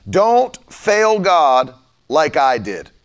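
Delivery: drawn-out, grave "Don't fail God like I did"; slow, solemn retold preaching; slow, heavy warning. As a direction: weigh every word. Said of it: "he began to preach everywhere".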